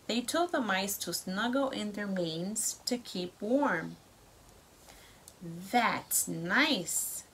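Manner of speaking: lively storybook read-aloud; reading to children. A narrator's reading. Parent reads story to child.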